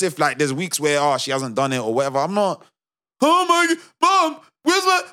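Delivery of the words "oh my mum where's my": high whiny call to Mum; mock shout for mum from another room; yelling across the room. Mocking someone shouting for mum.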